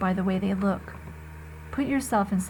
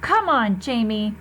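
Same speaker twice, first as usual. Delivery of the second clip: angrily; 4 dB louder, slower than usual. Acted. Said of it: "said Mom angrily".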